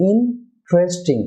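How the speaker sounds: ইন্টারেস্টিং slowly in parts, "in", then "tresting"; T and R joined. Shown as a demonstration. Teacher breaks down the word for viewers, T and R joined. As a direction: say ইন্টারেস্টিং slowly with T and R as one cluster. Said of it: "টি আর একসাথে হবে".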